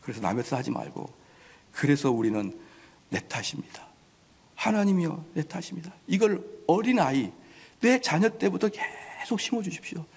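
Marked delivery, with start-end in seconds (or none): 3.1-5.9 soft, near-whispered prayer; hushed confession. Acted. Believer confessing fault to God in a hushed prayer. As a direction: murmur it as a humble confession.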